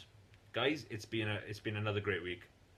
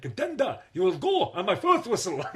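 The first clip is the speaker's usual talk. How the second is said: high, loud referee call with a laugh; referee announcer; 11 semitones higher, 12 dB louder than usual. Retold or imitated. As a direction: bark it like a game show ref. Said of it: "it had to come with a ref".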